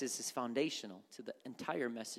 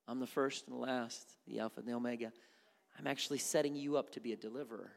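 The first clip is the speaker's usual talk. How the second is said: calm God; faster than usual. Acted. God answers Moses.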